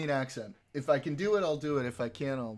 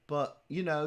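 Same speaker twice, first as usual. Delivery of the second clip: put-on British accent.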